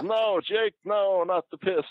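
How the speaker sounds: very high-pitched pleading mock voice; Honky Tonk Man. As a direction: plead in a slow, squeaky falsetto. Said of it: "with his voice".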